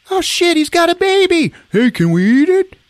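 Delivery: high mock-thrilled shouting; excited villagers. Hungry villagers spotting a baby, high excited cry.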